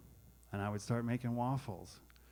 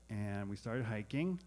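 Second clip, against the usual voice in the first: ordinary talk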